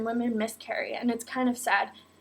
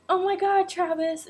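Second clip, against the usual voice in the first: excited oh my god; 7 semitones higher than usual. Retold or imitated. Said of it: "And I was like".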